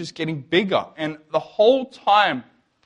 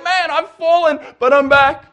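mock testimony; 7 semitones higher, 5 dB louder than usual. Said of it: "All the testimonies are like".

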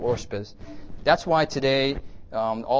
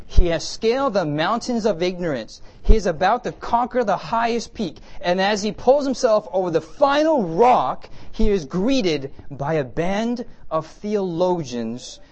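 dramatic reading; 6 semitones higher, 6 dB louder, slower than usual. Shown as a demonstration. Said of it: "Now, get this".

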